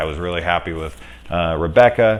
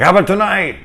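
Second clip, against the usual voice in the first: much higher, louder sing-song reply; mock sweet reply; 13 semitones higher, 7 dB louder, faster than usual. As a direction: answer with fake sweetness. Killer answering sweetly.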